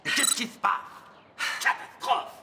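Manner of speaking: talking with a burned tongue; words mangled by a scalded tongue; food too hot. Real, not acted. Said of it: "Tu ne pourrais pas parler normalement". (parler avec la langue brûlée)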